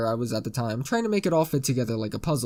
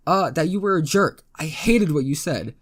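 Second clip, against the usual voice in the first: raised, louder, indignant reply; mildly angry retort; 3 semitones higher, 5 dB louder than usual. Acted. Pinned girl tells him off, mildly angry. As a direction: throw the accusation back, a touch heated.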